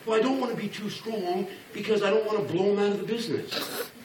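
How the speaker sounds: mock-timid, hesitant to push; timid coach. Timid coach excusing going easy on recruits, mock wimpy. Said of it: "So many of you are so afraid".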